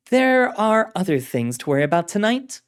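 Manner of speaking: firm authoritative woman's voice; commanding director. Acted. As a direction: give the order with authority.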